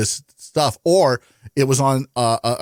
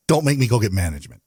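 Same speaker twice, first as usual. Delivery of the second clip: lightly voiced stern-dad warning; a hint of dad warning the kids; faster than usual. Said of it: "in my best dad voice".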